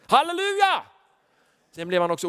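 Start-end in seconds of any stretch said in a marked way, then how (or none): 0.1-0.8 loud, high shout of praise; jubilant hallelujah. Real, not acted. Preacher shouting praise to the congregation. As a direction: cry out hallelujah.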